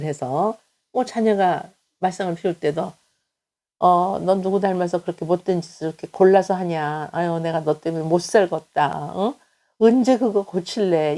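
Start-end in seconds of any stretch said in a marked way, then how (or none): 3.8-11.2 mild mock scolding of a child, a touch louder at the end; a parent nagging a misbehaving kid, half-acted. Parent scolding a troublesome child, in a lightly acted nagging tone. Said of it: "이거 다 유 메시지거든요".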